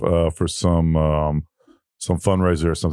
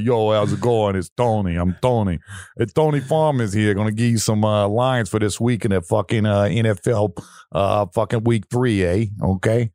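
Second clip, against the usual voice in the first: mock Italian accent. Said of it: "start talking like a, an Italian and stuff".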